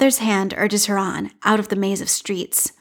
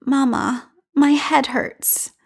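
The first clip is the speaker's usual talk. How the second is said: put-on child in pain; 5 semitones higher, much slower than usual.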